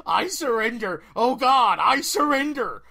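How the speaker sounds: panicked high scream; frantic, loud pleading scream; screamed surrender. A narrator's reading. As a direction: scream it, terrified and begging. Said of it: "the Bandit King screamed".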